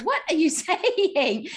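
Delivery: high, drawn-out mock disbelief with a laugh; incredulous, stretching the words through laughter; baffled disbelief. Her baffled reaction to the film.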